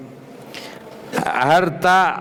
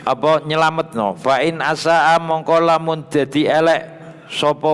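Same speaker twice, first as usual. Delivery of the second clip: raised, chanting read of Arabic text with Javanese gloss; kitab recitation; 3 semitones higher than usual. Acted. Teacher reading the kitab aloud to students, raised chant-like recitation. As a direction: intone each phrase then gloss it.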